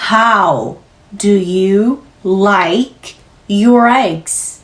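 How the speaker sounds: very slow on a single exhale; one-breath drill. Shown as a demonstration. Teacher models one-breath delivery, very slow. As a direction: ride one long breath through the whole line. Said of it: "호흡 한 번에 후 뱉고".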